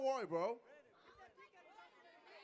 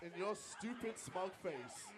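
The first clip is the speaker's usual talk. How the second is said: megalomaniac rant; 2 semitones lower, 13 dB quieter than usual. Acted. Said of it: "You sound like a supervillain".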